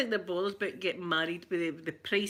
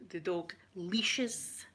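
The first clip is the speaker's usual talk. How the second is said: slow conspiratorial whisper; whispered aside; 2 semitones lower, 5 dB quieter, much slower than usual. Real, not acted. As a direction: drop to a hushed breath for the phrase. Confiding a Scottish term.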